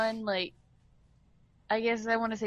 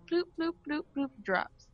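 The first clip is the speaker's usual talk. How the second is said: imitated bloop sounds; 6 semitones higher than usual. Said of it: "it's just like".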